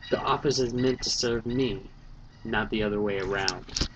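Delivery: even, measured audiobook narration; steady novel narrator voice, wry; story narration. A narrator's reading. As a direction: read it like a first-person detective novel. Reads novel aloud as narrator.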